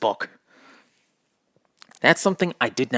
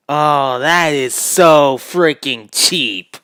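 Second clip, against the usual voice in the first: indignant; 7 dB louder, slower than usual. Real, not acted. Indignant at Drover faking lame.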